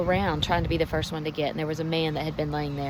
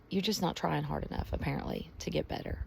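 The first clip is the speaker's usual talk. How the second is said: judging inner thought; 5 dB quieter than usual. Acted. Voicing people's judging thought.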